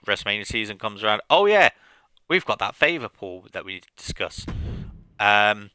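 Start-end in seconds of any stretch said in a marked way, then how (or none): 1.3-4.4 knowing smirk in the voice; sly teasing. Retold or imitated. Punk reminding Heyman of favor.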